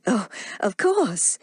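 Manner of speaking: slow, eager; light up as you say it; a touch of delighted eagerness; eager cry. Acted. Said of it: "cried Melanie".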